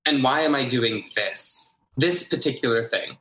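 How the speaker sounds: "this" pressed before "particular thing"; weight on "this" as the particular one; stress on THIS. Shown as a demonstration. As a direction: point at "this". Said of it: "emphasis on different words".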